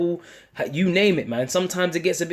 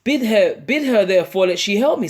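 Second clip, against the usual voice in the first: quoted Martha; 5 semitones higher, 4 dB louder than usual. Retold or imitated. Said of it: "It says".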